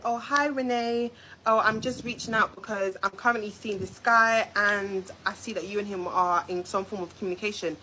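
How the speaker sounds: a lightly voiced sweet, polite girl, the opposite of what she sent; mock polite message. Renee imagines a girl reaching out nicely, mild mock sweetness. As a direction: act out the polite version a little sugary. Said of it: "It's not like she messaged me and she said".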